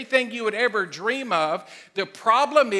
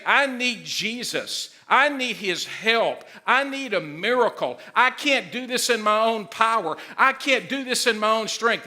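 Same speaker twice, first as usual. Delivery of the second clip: sincere plea; 3 semitones higher than usual. Retold or imitated. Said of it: "and you say".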